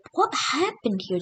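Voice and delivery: high, puzzled voiced question. Algerians finding the nuked desert, asking aloud, puzzled. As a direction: ask it aloud, bewildered.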